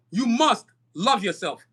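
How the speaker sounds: "must" leaned on, slow and deliberate; measured, insistent weight on "must"; stress on MUST. Real, not acted. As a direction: slowly press home the word "must". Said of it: "and I stress this again".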